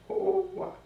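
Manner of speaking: very high, thin "oh"; high-pitched "oh". Acted. Deposed king recalling his lost title, high-pitched "oh". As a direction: let out a high falsetto oh.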